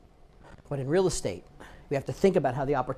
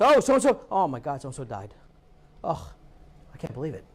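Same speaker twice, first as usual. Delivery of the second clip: mock shocked grief; 3 semitones lower than usual. Reacting to a death post.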